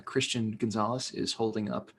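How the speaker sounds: calm, measured public radio announcer. Pretend. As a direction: read it like a public radio host. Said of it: "public radio voice".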